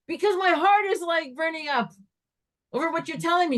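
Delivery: high, heated mock outburst; retold screaming. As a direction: blurt it out worked up, without a full yell. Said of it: "why are you screaming".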